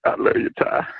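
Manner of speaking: unvoiced sobbing confession; fake crying. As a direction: whimper it out like mock crying. Confession ends in fake sob.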